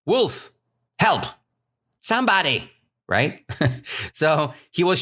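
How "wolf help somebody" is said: long wailed help, then short high calls; acted shouting. Shepherd boy calling the village for help, mock shouting.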